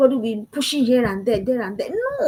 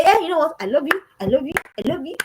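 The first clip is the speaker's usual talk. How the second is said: daughter mock gushing; 4 semitones higher, 3 dB louder, faster than usual. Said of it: "when she gets that guy and say".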